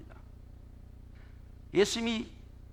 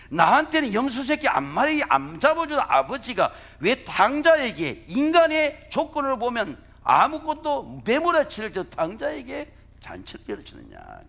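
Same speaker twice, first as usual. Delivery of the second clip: higher and louder, voicing the elder son's grievance; resentful complaint; 6 semitones higher, 5 dB louder than usual. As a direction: push out the son's bitterness. (큰아들의 억울함을 높고 크게 토로)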